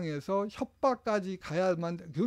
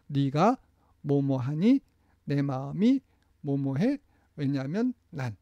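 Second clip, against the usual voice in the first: slower, louder practice chant; slow drill; 4 semitones lower, 3 dB louder, slower than usual. Shown as a demonstration. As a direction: lead the class through each part. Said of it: "자, 다 같이 시작". (다 같이 따라 하는 연습 말투)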